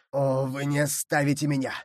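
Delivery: understated imploring cry; imploring appeal. Acted. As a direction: appeal for mercy from the water. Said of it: "взывал Мордаунд".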